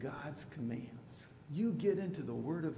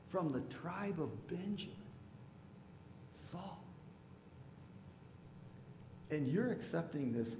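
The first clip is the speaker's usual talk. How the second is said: parents disowning son; 4 semitones higher than usual. Retold or imitated. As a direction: plead with your son, then threaten. Parents scold son for conversion.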